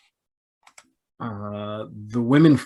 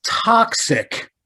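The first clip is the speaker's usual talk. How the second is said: mock accusation; 9 semitones higher than usual. Co-host adds a mocking word.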